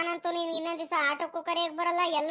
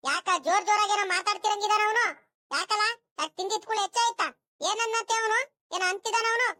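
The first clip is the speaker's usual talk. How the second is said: mildly cross, higher-pitched demands; stern questioning; 4 semitones higher, 3 dB louder than usual. Acted. Mother asks why he is talking so loudly, stern questioning. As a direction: question him sharply, voice raised in pitch.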